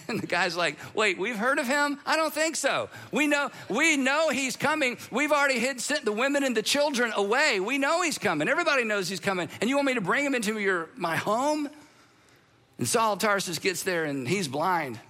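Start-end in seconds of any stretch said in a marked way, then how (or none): 0.9-11.7 incredulous townsman. Acted. Damascus man balks at hosting Saul.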